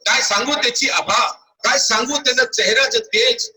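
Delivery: high, insistent wonder; awed exclamation. Acted. Priest tells the king of the extraordinary child, exclaiming. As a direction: exclaim in high pitch, marvelling.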